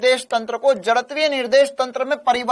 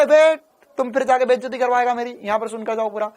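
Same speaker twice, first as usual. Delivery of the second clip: mock scolding; faster than usual. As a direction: play at ticking off an overeager student. Acted Newton scolding an eager student. (बनावटी डाँट, जल्दी-जल्दी)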